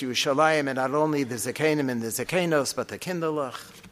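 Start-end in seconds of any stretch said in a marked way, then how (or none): 2.7-3.8 whispered, softer aside. Acted. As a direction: whisper it like a tender secret about the little ones. Tender aside about the children.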